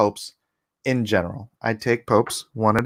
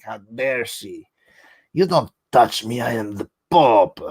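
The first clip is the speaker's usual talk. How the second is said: mock pissed-off. Imitating the pissed Pope after the slap, mock indignation. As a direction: imitate an affronted pontiff pulling rank. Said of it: "he's just pissed".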